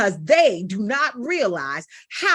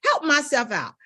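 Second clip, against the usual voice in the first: retold exclamation; 6 semitones higher, faster than usual. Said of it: "I said".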